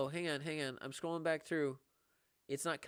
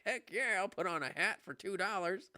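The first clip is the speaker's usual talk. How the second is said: higher, louder gleeful yes; mock eager; 9 semitones higher, 5 dB louder than usual. Streamer retelling his reaction to a two-dollar gift, excited. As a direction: act thrilled over a tiny gift. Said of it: "I was like".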